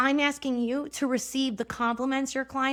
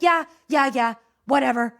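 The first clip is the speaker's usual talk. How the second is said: dismissive; 6 dB louder than usual. Retold or imitated. Sulky dismissal of husband.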